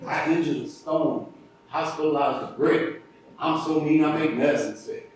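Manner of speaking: hams up the champ's rhyming brag to Tyson's face; Muhammad Ali impression. Storyteller mimics Ali trash-talking Tyson, playful light impression. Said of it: "Muhammad likes it when I do the impression".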